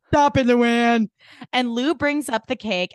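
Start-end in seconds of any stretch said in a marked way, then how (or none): 0.1-1.1 lightly acted scolding, drawn out; slow, exasperated impression; Dorinda. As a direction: stretch out a mock scolding. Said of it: "She's like".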